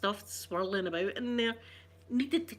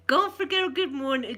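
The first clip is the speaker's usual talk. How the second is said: whisper; 6 semitones higher, 6 dB louder than usual. Real, not acted. Greeting a viewer.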